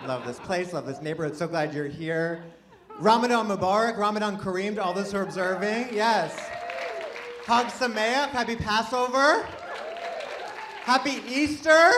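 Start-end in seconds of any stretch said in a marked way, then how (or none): 3.0-11.9 high, loud cheer to the crowd; big-hearted, belted well-wishing; exuberant holiday greetings. Real, not acted. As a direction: call out festive greetings, building higher and louder.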